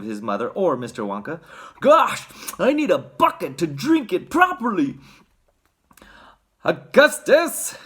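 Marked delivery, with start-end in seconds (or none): 1.8-5.0 put-on high-pitched greedy boy; eager, high child voice; Augustus. A narrator's reading. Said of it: "said Augustus". 6.6-7.8 high, drawn-out alarmed call; urgent cry to stop him. A narrator's reading. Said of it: "cried Mister Wonka".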